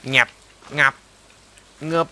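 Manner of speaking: playful mock sound effects, little cartoon pops; silly planting noises. Player dubbing his own tree planting with goofy mouth noises. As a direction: dub each seed going in with a goofy noise. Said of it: "ปลูกต้นไม้ต้องมีเสียงด้วย".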